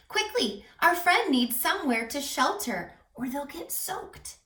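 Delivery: rally friends before the rain soaks them; urgent call. Acted. Animals rush in storm.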